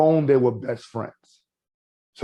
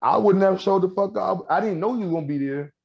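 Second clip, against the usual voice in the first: exasperated rant; 3 semitones higher than usual. Retold or imitated. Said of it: "I'm like".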